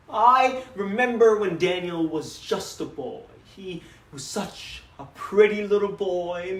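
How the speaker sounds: lightly voiced doting papa reminiscing; a father fondly boasting about his son, then turning wistful; father's dramatic monologue; proud father.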